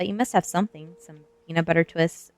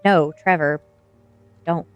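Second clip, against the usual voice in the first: louder plea to stop; urgent protest; 9 dB louder, slower than usual. A narrator's reading. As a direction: call out to stop them. Pleading to stop the vandalism.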